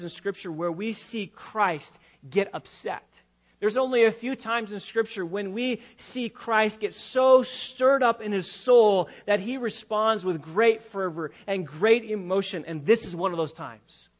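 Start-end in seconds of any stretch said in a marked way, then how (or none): 3.6-12.6 emphatic, building sermon delivery; forceful pulpit oratory; impassioned preaching. Acted. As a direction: preach it with fervor.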